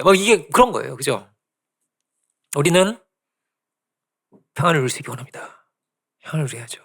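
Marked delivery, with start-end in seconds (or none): 2.6-6.8 whisper. Real, not acted. Preacher hushes his closing line.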